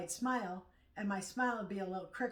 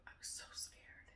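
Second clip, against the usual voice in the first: breathless whisper; 16 dB quieter than usual. Real, not acted. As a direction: whisper it, still shaken. Reliving a frightening memory.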